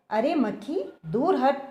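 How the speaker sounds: loud, high roar at the fly; lion roaring to shoo away the fly. A narrator's reading. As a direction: roar it out like an angry lion king. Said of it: "वह दहाड़ा".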